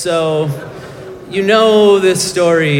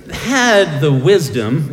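slow build-up; slower than usual. Shown as a demonstration. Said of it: "it takes a lot of wisdom".

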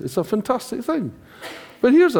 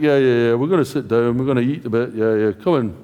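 miserable; 8 semitones lower than usual. Retold or imitated. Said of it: "they're miserable".

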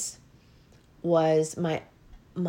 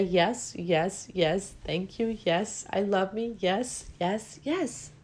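grateful yeses; slower than usual. Retold or imitated. Speaker showing how she accepts her body's messages, grateful. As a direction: welcome each message gently. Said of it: "But now I say".

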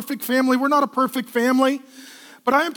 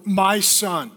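tender address; 4 semitones lower than usual. Shown as a demonstration. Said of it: "Connect before".

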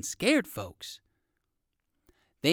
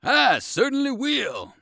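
much higher, louder and slow; eager pony boy; 10 semitones higher, 5 dB louder, slower than usual. A narrator's reading. Pony boy eagerly agreeing to race, much higher. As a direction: answer eagerly like a little pony. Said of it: "cried Munchie".

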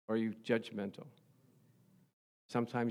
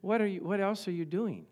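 mock-gracious, higher-pitched nudge; nice, gracious way; 6 semitones higher than usual. Shown as a demonstration. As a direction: chide them nicely, half joking. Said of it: "in a nice, gracious way".

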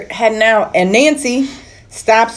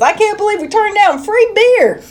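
a mock Southern accent pitched higher; bad Southern accent; 11 semitones higher than usual. Host retelling Val's line about the beer, in a bad Southern accent. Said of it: "They didn't say it like that. They had a way better accent".

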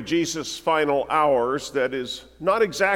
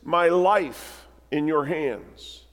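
Jesus' last prayer; slower than usual. Acted. Preacher repeating Jesus' final prayer, slow and earnest. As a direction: linger over every word. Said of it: "this final prayer".

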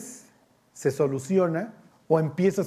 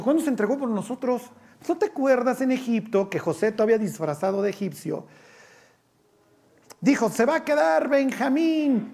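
higher, mocking dim king voice; mock foolish Saul; 5 semitones higher than usual. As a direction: play Saul as a scoffing fool. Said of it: "el tontito de Saúl ha de haber dicho". (Saúl tontito burlándose de su hijo, agudo)

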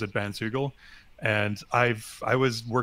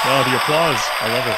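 playful delight; 2 semitones higher, 10 dB louder than usual. Pretend. Joking about fake applause.

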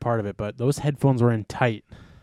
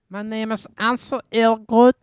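mock introduction; 11 semitones higher, 7 dB louder than usual. Mocking actor's introduction.

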